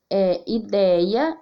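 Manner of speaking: ideia said slowly, open é stressed; teacher spelling aloud. Shown as a demonstration. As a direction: draw out ideia with an open é for the class. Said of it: "ideia antes".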